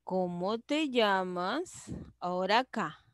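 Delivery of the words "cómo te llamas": pregunta suave, LLAMAS sube al final. Shown as a demonstration. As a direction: baja la voz y levanta «llamas». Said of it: "es una pregunta la que hago yo". (pregunta suave con final ascendente)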